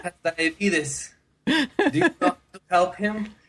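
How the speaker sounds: put-on high, slow Russian-accented plea. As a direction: plead with strangers in a thick Russian accent. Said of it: "who had a very thick Russian accent".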